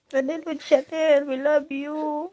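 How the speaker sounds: slow, drawn-out affection; loving message. Real, not acted. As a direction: stretch it out lovingly to absent puppies. Loving message to absent puppies. (mabagal at malambing)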